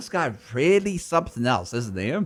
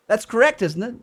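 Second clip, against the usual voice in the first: mock Cockney; 5 semitones higher than usual. Shown as a demonstration. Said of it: "saying an answer with a question".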